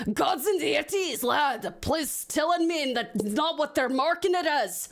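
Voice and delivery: put-on exasperated character in a rough Scottish accent; attempted Scottish accent. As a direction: have a shaky go at Scottish. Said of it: "I cannot do a Scottish accent".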